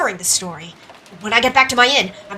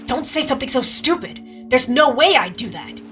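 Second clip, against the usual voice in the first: mildly heated, raised pitch; indignant denial; 5 semitones higher, 3 dB louder than usual. Acted. Accused of being the slasher, denying it indignantly. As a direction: snap back at the accusation.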